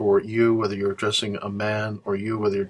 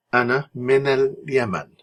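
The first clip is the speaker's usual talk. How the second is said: slow model line; 3 semitones higher than usual. Shown as a demonstration. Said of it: "teacher models dialogue line slowly".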